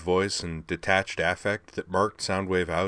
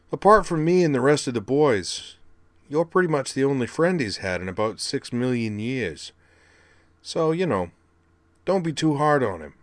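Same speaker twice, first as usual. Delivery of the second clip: much higher, brash punk voice; scrappy robot kid; 6 semitones higher, 5 dB louder than usual. Acted. Rumble scolding his brother, brash high punk voice. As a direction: needle him like a cocky kid brother.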